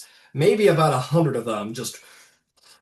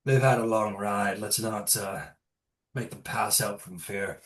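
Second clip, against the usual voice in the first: lightly voiced shaman; 4 semitones lower, 6 dB quieter than usual. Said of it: "He says".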